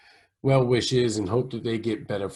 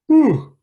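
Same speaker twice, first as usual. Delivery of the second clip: high loud whew; 11 dB louder than usual. Real, not acted. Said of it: "excuse me".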